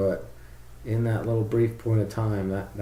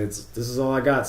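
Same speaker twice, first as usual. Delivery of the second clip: lightly voiced strained engineer, higher; motors protesting; 5 semitones higher, 4 dB louder than usual. Overworked motors reporting back to the pid loop, mildly protesting. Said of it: "the motors are reporting back and say".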